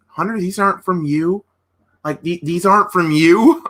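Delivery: light mock baby voice, questions lifting; a hint of a pouty baby voice; imitating Stephanie's baby talk. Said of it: "like a baby voice".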